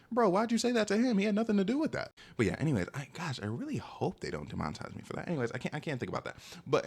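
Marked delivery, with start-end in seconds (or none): 0.1-2.1 higher, louder protest for his friend; indignant defense. Retold or imitated. Defending his friend from a rude girl, indignant. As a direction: stick up for your boy. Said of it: "And I was like".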